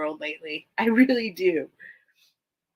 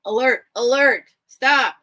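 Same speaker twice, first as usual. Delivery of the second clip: mock alarm; 4 semitones higher, 7 dB louder than usual. Mock alarm calling a halt.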